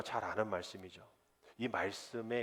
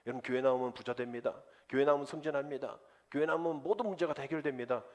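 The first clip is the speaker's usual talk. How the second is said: mock false pastor; 3 semitones higher, 3 dB louder than usual. Pastor mocking a heretic preacher promising riches. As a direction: sell empty promises, rising in pitch. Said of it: "만약에 그러한 목사 있으면요, 이건 조금 이상한 목사입니다".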